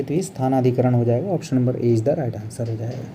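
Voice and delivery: normal talking voice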